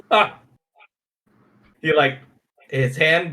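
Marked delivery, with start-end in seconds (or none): 0.1-0.4 pained cry. Acted. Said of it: "he just cries out".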